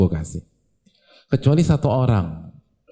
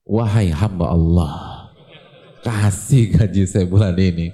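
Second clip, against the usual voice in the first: worker asking pay; 4 dB louder than usual. Retold or imitated. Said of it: "terus minta gaji".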